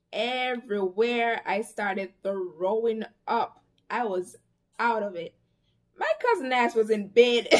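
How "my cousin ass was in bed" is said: laughing through the words. Real, not acted. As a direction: giggle it out. Laughing while telling.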